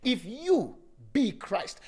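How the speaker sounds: slow, deliberate repeat; slow, savoring repeat; said slowly. Shown as a demonstration. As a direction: stretch the words out. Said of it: "Let me say it slowly".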